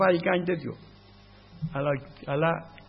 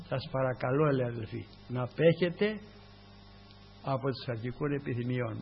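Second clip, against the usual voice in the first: gentle courteous plea; 4 semitones lower, 6 dB quieter than usual. Retold or imitated. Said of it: "τι ευγένεια".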